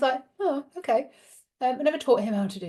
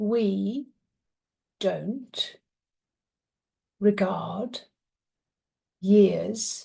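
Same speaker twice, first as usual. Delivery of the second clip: very slow, each word drawn out; 2 semitones lower than usual. Mother retells her seven-year-old son relaying what the tree said, very, very slow speech. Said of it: "he started speaking very, very, very slowly".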